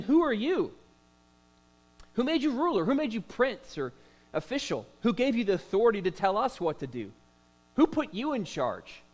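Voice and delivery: high, loud indignant demands; indignant challenge. Acted. Guilty Hebrew challenges Moses, high and loud with indignation. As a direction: demand who gave him authority. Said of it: "he's saying".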